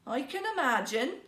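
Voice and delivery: scornful, dismissive remark. Acted. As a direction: sneer it with disbelief. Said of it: "said his wife scornfully".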